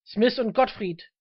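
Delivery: loud calling. Acted. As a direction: call the names out loudly and deliberately. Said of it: "rief er laut".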